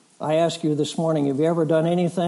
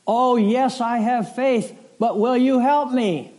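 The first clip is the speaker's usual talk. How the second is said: pleading hiker; 7 semitones higher, slower than usual. Retold or imitated. Hiker dangling, pleading with God.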